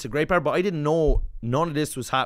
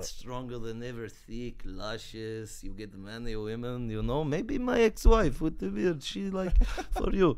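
mock barber; 2 semitones lower, slower than usual. Mocking the barber's sales pitch.

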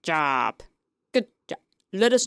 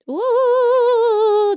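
higher, louder delighted ooh; high excited ooh; 10 semitones higher, 6 dB louder than usual. Real, not acted. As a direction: gasp with delight. Amazed at the bathroom.

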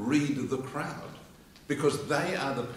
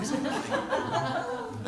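excited spectator; slower than usual. Retold or imitated.

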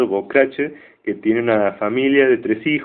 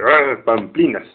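refunfuño burlón; slower than usual. Retold or imitated. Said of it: "se funfuña y dice".

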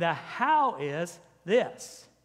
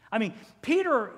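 usual speaking voice

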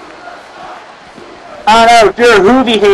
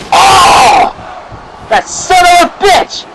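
shocked outburst; 8 semitones higher, slower than usual. Pretend. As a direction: blurt it out as if the chair hit ringside. Chair shot shocks the commentator.

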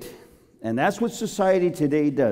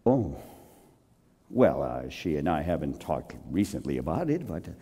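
hesitant evasive husband; 11 semitones lower, 6 dB quieter than usual. Retold or imitated. Evasive husband asked about marriage.

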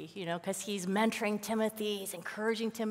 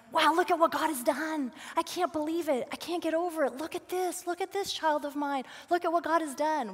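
higher, marvelling praise; amazed praise; 6 semitones higher than usual. Retold or imitated. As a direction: marvel at what God has done. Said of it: "but like".

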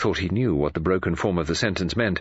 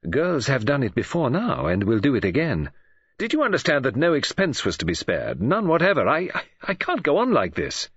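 on edge; 2 semitones higher than usual. Acted. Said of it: "He seemed completely on edge".

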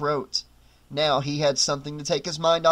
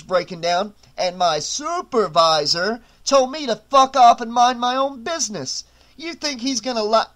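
sneering; 3 semitones higher, 4 dB louder than usual. Acted. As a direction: taunt him, building up. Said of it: "Aldous replied with a sneer".

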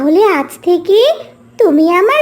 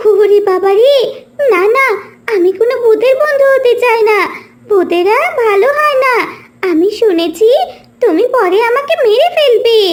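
frightened pleading. Acted. Mintu refuses ghost's friendship.

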